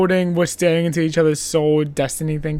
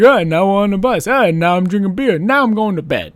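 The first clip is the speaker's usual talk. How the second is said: louder, fast, chipper listing; mock chirpy narration; 4 semitones higher, 8 dB louder than usual. Host mocking the jumpy scene cuts, chipper and loud. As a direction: rattle off each cut brightly.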